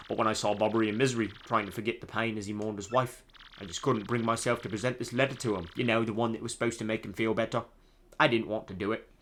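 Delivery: regretful tale in mock British accent; awful British accent. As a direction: confess it in a bad British accent. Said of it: "my awful British accent".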